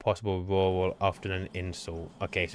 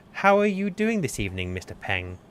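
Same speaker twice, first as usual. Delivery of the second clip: much higher, polite posh phone manner; posh telephone voice; 7 semitones higher, 3 dB louder than usual. Pretend. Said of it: "your posh telephone voice".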